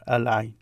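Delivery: Al-Ain with the L sounded; L pronounced. Shown as a demonstration. Teacher showing you pronounce the L, Al-Ain with clear L. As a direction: say Al-Ain keeping its L. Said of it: "Notice you pronounce the L there".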